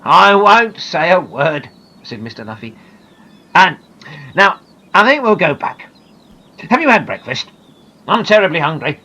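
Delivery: put-on kindly naturalist reassuring a scared girl; amused kind man. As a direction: gently laugh her fear away. Luffy promises and chats.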